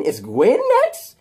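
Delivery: slow loud taunt; menacing outburst. Acted. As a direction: spit the question out slowly. Harry's threatening climax.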